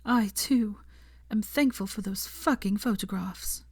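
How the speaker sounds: whispered. Acted. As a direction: whisper it forehead to forehead. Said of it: "she whispered".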